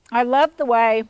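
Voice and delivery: talking with a mouth full of tomato. Real, not acted. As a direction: speak through a mouthful. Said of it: "I've got my mouth full".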